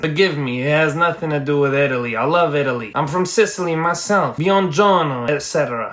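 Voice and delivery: lightly put-on Italian accent; a hint of joking Italian accent; mock Italian accent. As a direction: play at being a Sicilian, Italian accent. Jokingly apologises to Italy as Sicilian.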